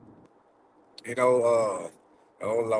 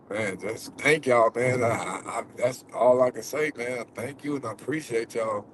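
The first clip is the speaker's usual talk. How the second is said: choked up; 3 semitones lower than usual. Real, not acted. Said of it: "I just feel all kinds of emotions".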